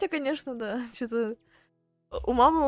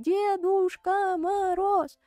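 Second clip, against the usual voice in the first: loud, slow, drawn-out call; children calling out; 8 semitones higher, 5 dB louder, much slower than usual. Retold or imitated. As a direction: call him like kids at a party. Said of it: "И мы такие".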